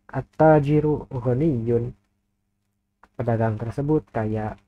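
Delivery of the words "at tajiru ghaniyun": slow model reading. Shown as a demonstration. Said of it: "taknya dibaca tasydid".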